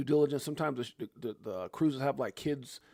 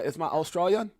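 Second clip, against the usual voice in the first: mock Australian accent, pitched up; 5 semitones higher than usual. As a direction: playfully put on an Australian accent. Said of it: "Anybody from Australia? I don't mean no offense".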